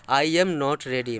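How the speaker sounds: very slow, word by word; slow dictation. Shown as a demonstration. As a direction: read it out slowly like dictation. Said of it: "समझ गए?". (बहुत धीरे, शब्द-शब्द करके)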